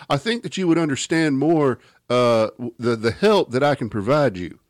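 lightly voiced TV doctor, preachy and smug; a mild send-up of a daytime TV host pitching his show; Doctor Phil voice. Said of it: "do the Doctor Phil voice".

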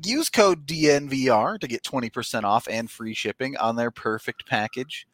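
upbeat podcast ad read. Acted. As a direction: sell it like a host-read ad. Reads Manscaped ad.

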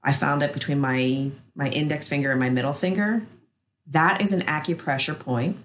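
soothing massage murmur. Acted. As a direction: guide them gently into rest, unhurried. Guides an acupressure relaxation.

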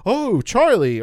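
high, loud melodramatic wail of the name; big theatrical howl of Charlie; loud overblown cry. Shown as a demonstration. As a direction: overplay it, crying out the brother's name. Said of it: "would be like".

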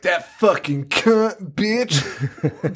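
lightly voiced foul-mouthed teenage girl, dragging the words; mock teenage girl. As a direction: imitate a swearing teen, drawn out. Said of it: "the teenage girls are talking".

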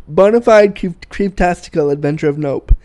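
amused reread of own joke. Real, not acted. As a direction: repeat the phrase chuckling. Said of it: "I'm making myself laugh".

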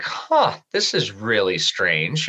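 retelling his confusion at the big house; puzzled huh. Retold or imitated. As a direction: sound baffled at the address. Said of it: "And I'm like".

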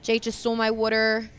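light Philly accent; a touch of Philly in the vowels. Shown as a demonstration.

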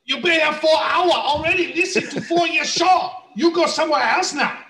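high, hammed-up put-on accent, bossy; mock Asian accent. Continues the put-on accent bit.

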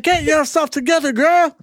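cartoonish high scolding buddy voice; mock pep talk. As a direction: pump her up in a silly high voice. Voicing the slapping man.

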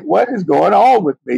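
high-pitched, baffled self-questioning; exasperated at your own emotions; emotional bewilderment. Retold or imitated. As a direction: ask it in mock bewilderment, pitch lifted high. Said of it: "anything get me all emotional".

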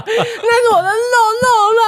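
put-on very high whiny baby talk; cutesy baby voice. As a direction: whine like a spoiled child.

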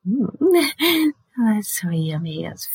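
whispered moan of pleasure; savoring moan. Real, not acted. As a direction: murmur like tasting something good.

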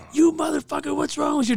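high-pitched mock scolding; imitated angry coworker; retold cussing-out. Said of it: "the other shift's motherfucking me".

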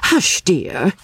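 high, absent shushing; absent-minded hushing. A narrator's reading. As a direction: hush them without really attending. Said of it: "said Missus Honeychurch absently".

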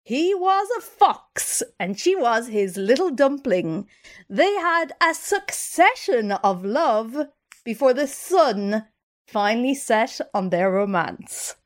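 slow, swooping storybook delivery; romantic story narration. Acted. Host telling co-host of two lovebirds, theatrical narration. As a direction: draw out each clue with dramatic pauses.

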